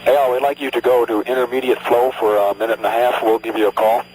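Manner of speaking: crackly radio transmission. Real, not acted. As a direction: through a space radio link. Mission control radio instructions.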